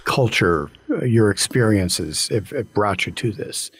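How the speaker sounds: choked up. Real, not acted. Host moved by guest's story.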